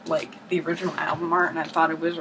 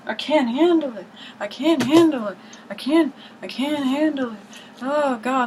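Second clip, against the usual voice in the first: mock panic; 5 semitones higher than usual. Vlogger finding yet another record by a band, hammed-up panic. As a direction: play it like you can't cope any more.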